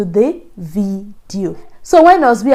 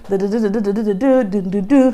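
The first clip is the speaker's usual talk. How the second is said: mock panic drumming. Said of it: "my ears was not there".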